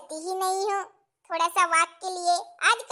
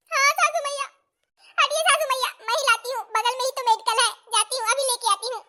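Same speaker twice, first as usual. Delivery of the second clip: put-on higher, louder fretting young bride; 7 semitones higher, 5 dB louder, faster than usual. New bride alone in kitchen, fretting in high voice. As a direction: fret like a clumsy new bride.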